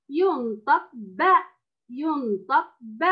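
slow ينطق ب with fatha; slow careful demo. Shown as a demonstration. Teacher drills the fatha sound for Ola, slowly. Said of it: "الفتح".

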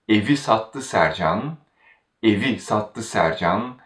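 evi prominent at the start; stress on evi. Shown as a demonstration. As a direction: put the weight on evi. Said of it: "the stress falls on evi once again".

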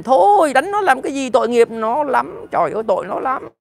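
high, whiny mock cry to spare the thief; parodying people begging mercy for a robber; mock pity plea. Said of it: "thì chúng nó la lên".

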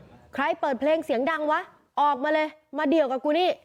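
a reporter mimicking a shouted threat; mock shout. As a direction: act out the drunk's challenge, half-hearted. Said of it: "ตะโกนบอก".

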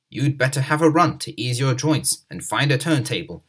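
ordinary delivery

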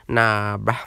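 light impression of a bruh-heavy friend; Jane Pesso. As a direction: lightly put on a street-talking buddy voice. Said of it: "this is the type of shit he would say".

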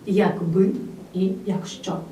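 Якби and якщо said with the stress on the second syllable, як-БИ, як-ЩО. Shown as a demonstration. Teacher marking the stress of Якби and якщо. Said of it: "наголос виразно падає тут на другий склад".

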